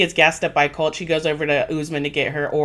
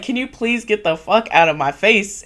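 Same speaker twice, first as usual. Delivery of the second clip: mock exasperated request, raised pitch; fed up; 4 semitones higher than usual. Tim over the argument asks her off, retold fed-up voice. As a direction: plead wearily to be left alone, imitating. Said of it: "Tim is over this shit".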